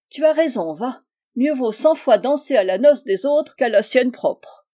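lightly voiced, emphatic matron; a touch of brisk, teasing authority; outspoken old hostess.

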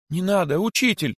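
high, urgent outcry; pleading cry. A narrator's reading. Disciple begging his teacher not to sacrifice himself, high outcry. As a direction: cry out to stop him. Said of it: "воскликнул возжаждавший".

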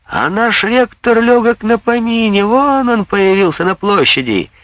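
high excited shout across the square; a student on the windowsill shouts high and excited. Acted. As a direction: call out high to everyone. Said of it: "крикнул один из сидевших".

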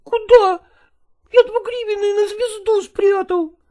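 put-on a child answering through sobs; tearful boy. Boy confessing to his mother through tears, high and crying. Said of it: "слезливо говорил он".

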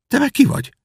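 put-on a confused boy asks who's there; prince asking. The prince asks Nan who she is, puzzled.

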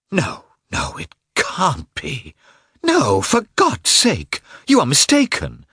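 high, slow, rising to an anguished cry; Dolly in desperate denial. Acted.

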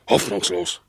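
high sudden wail of hopelessness; despairing cry. Acted. Dog recalls endless roads, despairing wail. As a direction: let it break upward in despair.

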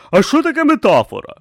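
high, questioning character voice; curious soldier. A narrator's reading. Simony asking the teacher, high and puzzled. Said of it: "поцікавився Симонія".

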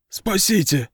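high, panicky cry; wailing plea. A narrator's reading. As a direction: beg to be saved in a wail. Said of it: "запричитал сытник". (причитая)

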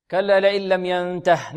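"كلا لئن لم ينته" chanted, stopping on a still h; stop at verse end. Shown as a demonstration. Teacher shows where the verse stops, "كلا لئن لم ينته" ending on h. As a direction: recite "كلا لئن لم ينته" and halt on the final h. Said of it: "نقف عليها لأنها رأس آية".

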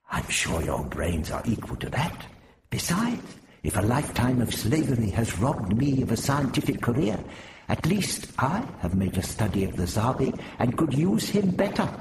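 put-on old man arguing his case, climbing high; Prapillus, self-important. Prapillus claims he knows the Zarbi better, proudly. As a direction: build from measured retort to high-pitched boast. Prapillus argues back, stung.

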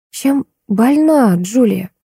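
very slow and timid; timid question. A narrator's reading. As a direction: ask shyly, unsure if allowed. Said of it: "робко поинтересовалась Светлана".

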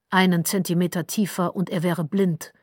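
ordinary delivery, nothing marked

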